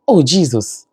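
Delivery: mild mock shout, falling pitch; imitating daughter's exclamation. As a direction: cry it out like an exclaiming child, lightly. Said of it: "Why are you shouting, 'Jesus, Jesus'?".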